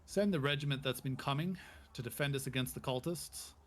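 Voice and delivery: loud barked orders; commanding captain. Acted. The captain orders his men to leave the fort, loud command. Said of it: "he comes out and he goes".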